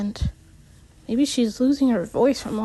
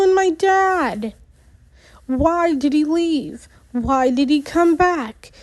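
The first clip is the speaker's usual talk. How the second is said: angry raised voice; 5 semitones higher than usual. Acted. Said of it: "I raise my voice, almost yelling".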